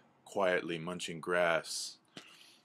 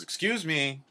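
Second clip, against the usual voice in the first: high-pitched tiny bird voice; squeaky little interruption; small hummingbird; 10 semitones higher, 4 dB louder than usual. Acted. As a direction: pipe up politely from far below. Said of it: "a small hummingbird".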